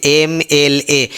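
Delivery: एम एल ए said letter by letter, slowly, with the opening एम vowel sound clear; slow spelling out. Shown as a demonstration. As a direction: let them hear the vowel sound of एम. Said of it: "आवाज़ कैसे". (एम एल ए धीरे-धीरे, एम की स्वर आवाज़ पर ध्यान)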